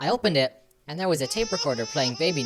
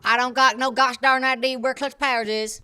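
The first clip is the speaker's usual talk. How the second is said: higher, odd voice-changed twang; voice-changer voice; 8 semitones higher, 5 dB louder than usual. Acted. Jürgen answering with his voice changer, odd high voice. Expected German, gets shrill voice.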